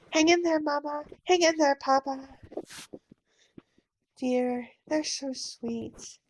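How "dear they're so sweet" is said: soft, slow, moved murmur; gentle murmur to husband; tender aside. Acted. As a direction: say it softly, touched.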